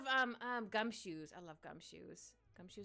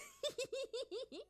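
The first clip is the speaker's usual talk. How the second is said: squeaky gleeful gremlin giggle. Shown as a demonstration. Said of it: "how am I gonna do the gremlin voice?".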